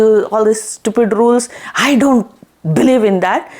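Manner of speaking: exasperated king, mildly acted; lightly acted tirade, piling up complaints; retold mad rant. King rails at his wife's rules, mildly mad. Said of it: "like, really mad".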